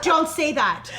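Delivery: retold telling-off, high and loud with suppressed amusement; stifling laughter. Mom echoing husband's correction to son, trying not to laugh. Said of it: "try not to laugh".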